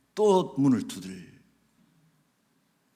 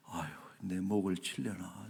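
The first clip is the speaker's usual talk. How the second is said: hushed, lower aside of someone scared; mock fearful muttering; 3 semitones lower, 6 dB quieter than usual. Grabbed congregant wondering about the pastor, mock fearful muttering. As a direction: imitate a frightened man worrying under his breath. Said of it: "이 양반이 겁을 먹은 거예요".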